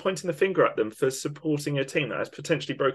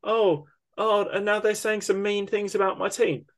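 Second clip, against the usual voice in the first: higher, sing-song mockery of a gloating fan; mock smug fan; 6 semitones higher than usual. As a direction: send up a spoiled fan, then a hammed-up whine. Mocking a smug City fan.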